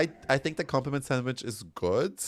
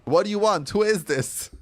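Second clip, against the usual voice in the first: loud startled; 10 semitones higher, 6 dB louder than usual. Real, not acted. Reacting to game character.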